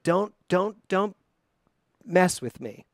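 stammering "Don't, don't, don't" before "mess with me"; stumbled wrong take. Shown as a demonstration. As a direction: trip over "Don't, don't, don't" like a false start. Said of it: "I almost had the wrong word here".

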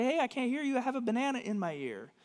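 high-pitched puppet reply; lightly acted puppet, pitched well up; Ernie. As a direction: call back obliviously in a high puppet voice. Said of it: "And he would say".

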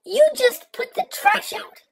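mock sweet kicker. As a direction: lean into it high and slow, sweetly sarcastic. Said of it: "Otherwise known as".

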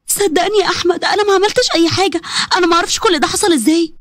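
a touch of desperate pleading; pleading young wife. Acted. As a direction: beg him to believe you. Maryam pleading to husband.

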